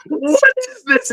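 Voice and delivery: high, slow, strained outrage; enraged teacher. Retold or imitated. Teacher holding up the student's page, slow outraged demand. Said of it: "And he smashes the table".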